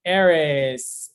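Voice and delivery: drawn-out name call. Real, not acted. Host summoning a graduate to speak, calling out. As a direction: call out for someone who should answer.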